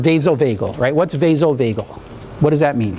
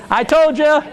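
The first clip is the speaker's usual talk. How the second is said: smug told-you-so; 11 semitones higher, slower than usual. Retold or imitated. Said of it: "her going".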